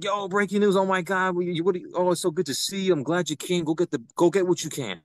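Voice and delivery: imitating eager fans; excited fans greeting. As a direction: gush like a fan spotting someone known. Fans greeting him at checkpoint.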